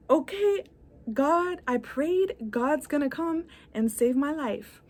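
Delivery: a hint of a stubborn believer; stubborn man. Stubborn stranded man voiced.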